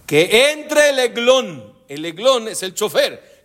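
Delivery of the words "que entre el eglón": calling out. Retold or imitated. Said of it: "y grita".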